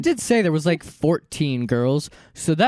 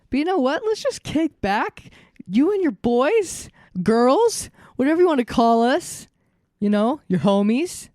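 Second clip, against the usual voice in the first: cheesy radio host; 10 semitones higher than usual. Acted. Hosty cheesy podcast intro.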